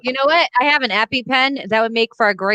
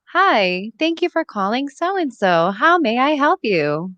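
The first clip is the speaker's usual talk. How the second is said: polite receptionist voice, a bit slower; phone voice; 2 semitones higher, slower than usual. Shown as a demonstration. Demo of her work phone voice, polite receptionist. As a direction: answer like a call centre. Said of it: "it's also my phone voice".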